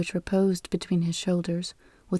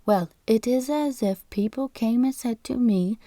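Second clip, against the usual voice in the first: put-on lightly raised squeaky old man's voice; a hint of a fussy registrar explaining; falsetto voice; 2 semitones higher than usual. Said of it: "in a falsetto voice".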